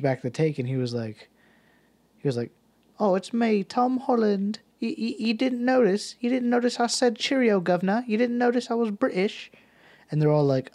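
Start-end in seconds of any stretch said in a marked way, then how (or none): 3.0-9.5 high, loud, hammed-up British accent; exaggerated cheerio-governor British voice; Tom Holland. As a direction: squeak it out as a mock-indignant Brit. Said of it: "very British accent".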